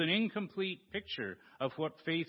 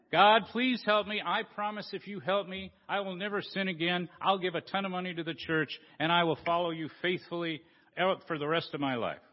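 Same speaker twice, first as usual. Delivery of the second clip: pleading; 3 semitones higher, 3 dB louder than usual. Acted. Jack pleading and bargaining.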